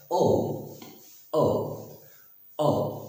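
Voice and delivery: ओ with a small oo mixed in at the end; rounded 'oh-oo' for ओ; O gliding to OO. Shown as a demonstration. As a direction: glide ओ lightly into a short ऊ. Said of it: "थोड़ा सा उसमें ऊ मिला देंगे".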